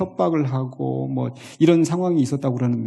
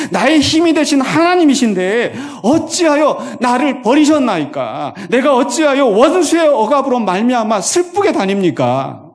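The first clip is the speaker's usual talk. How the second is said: impassioned cry; 7 semitones higher, 6 dB louder than usual. Acted. Preacher crying out lament.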